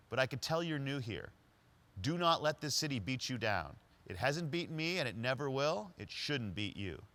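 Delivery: a street-wise stranger teasing the new guy; homeless man's street voice. Retold or imitated. Homeless man advising new driver.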